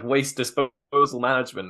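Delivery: put-on light New York accent on the van name. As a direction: read it like a New York wiseguy. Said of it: "You can't say that without putting on the New York accent".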